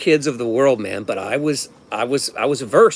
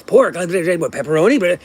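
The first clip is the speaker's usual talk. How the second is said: put-on murmuring kids. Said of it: "There was a lot of murmur".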